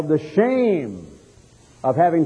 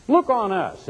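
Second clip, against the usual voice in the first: "Look on us." said higher, with a strong falling stress on "Look"; higher, urgent "Look on us."; raised command; 5 semitones higher than usual. Acted. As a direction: lift "Look" high and bring it down firmly. Peter's command repeated with emphasis.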